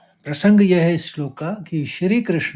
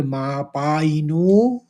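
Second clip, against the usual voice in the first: stretched syllables; much slower than usual. Shown as a demonstration. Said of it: "नो को ज़्यादा खींचेंगे".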